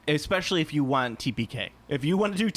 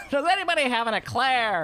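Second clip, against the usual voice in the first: mock eclair seeker; 9 semitones higher than usual. Hunting for an eclair at the festival, high comic yell. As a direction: call out plaintively, pitched way up. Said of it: "dude was really, really looking for an eclair".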